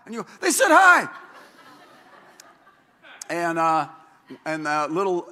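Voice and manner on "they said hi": much higher and louder, thrilled grandpa; delighted exclamation. Retold or imitated. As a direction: burst out in joy that the baby spoke.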